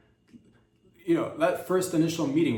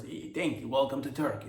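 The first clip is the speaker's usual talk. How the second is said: imitating broken English. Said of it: "broken English".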